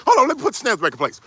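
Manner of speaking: hurried woman. Retold or imitated. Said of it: "you try to put the standards back".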